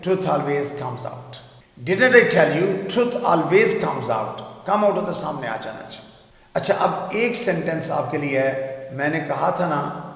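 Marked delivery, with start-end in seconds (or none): 0.1-4.4 slow, careful reading; teacher models; slow model sentence. Shown as a demonstration. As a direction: read slowly. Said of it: "میں نے کہا تھا نا سچ آخر سامنے آتا ہے".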